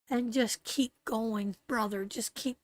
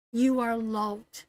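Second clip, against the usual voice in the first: close to tears; 4 dB louder, slower than usual. Real, not acted. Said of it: "Oh, you're gonna make me cry".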